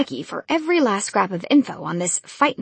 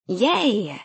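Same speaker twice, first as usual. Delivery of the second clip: fake cheer; 3 semitones higher than usual. A narrator's reading. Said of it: "she fake cheered".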